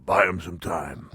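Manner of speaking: lightly imitated boss calling out an order; slow, punched-up mock command; Mister McMahon. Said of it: "picture Mister McMahon behind the curtain going".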